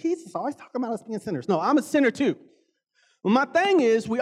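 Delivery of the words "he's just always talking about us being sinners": mock complaint. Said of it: "anybody to get offended".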